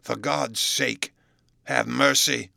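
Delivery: slow, drawn-out begging in an altered voice; anguished, put-on pleading voice; desperate plea. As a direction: beg for mercy as if cornered. Cornered man begs for mercy.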